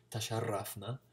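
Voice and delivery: "tasharrafna" with a rolled R; trilled R. Shown as a demonstration. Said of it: "the trill of the R".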